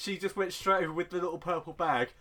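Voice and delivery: usual speaking voice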